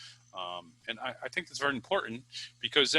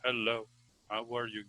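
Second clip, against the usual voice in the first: flat, softer monotone with no ups and downs; monotone demo; 2 semitones lower, 7 dB quieter than usual. Shown as a demonstration. Teacher showing students a boring monotone voice, flat and softer. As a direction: drone it with no melody at all. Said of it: "you don't wanna have a monotone voice like".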